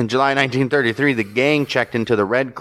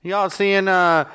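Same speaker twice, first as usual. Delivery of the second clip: announcer voice; 9 semitones higher, slower than usual. Pretend. Hyping a band like announcer.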